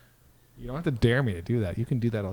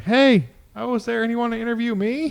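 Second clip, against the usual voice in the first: Rick Moranis impression; 11 semitones higher than usual. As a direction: squeak it out like a nervous nerd. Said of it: "Rick Moranis is like".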